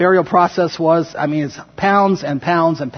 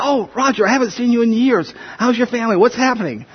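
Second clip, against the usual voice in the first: put-on higher, gushing welcome to an old friend; overjoyed friend; 6 semitones higher than usual. Friend welcoming a long-missed visitor, higher and gushing. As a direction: greet him like you haven't seen him in years. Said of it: "'cause they're so excited".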